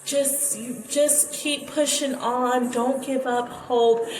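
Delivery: slow, earnest pep talk, lightly imitated; a hint of a slow motivational speaker; mom as motivational speaker. Imitating mom pepping up the dying boy, slow and earnest. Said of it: "whole motivational speaker".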